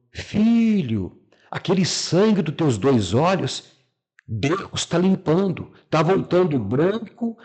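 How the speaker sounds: tearful joy. Retold or imitated. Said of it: "Ela veio chorando".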